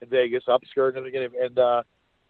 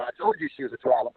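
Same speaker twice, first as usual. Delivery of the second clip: lightly voiced woman, higher; knowing told-you-so, pitched up; imitating LaDonna; 13 semitones higher, 4 dB quieter than usual. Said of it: "LaDonna told me".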